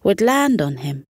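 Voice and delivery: soothing read-aloud voice; bedtime story narration. A narrator's reading. Bedtime story narration over music.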